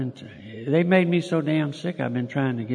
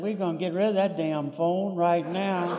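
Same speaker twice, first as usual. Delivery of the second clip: chuckling as he speaks, a bit faster; half-laughing mock decree; laughing through it; 4 semitones higher than usual. Real, not acted. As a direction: lay down the law while laughing at it. Laughing while retelling his decree.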